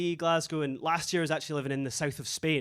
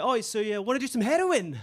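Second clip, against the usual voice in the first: imitating Spanish guy; 6 semitones higher, 4 dB louder than usual. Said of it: "He said, uh".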